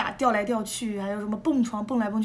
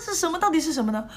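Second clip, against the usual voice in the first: excited; 5 semitones higher, faster than usual. Retold or imitated. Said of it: "我就是很激动".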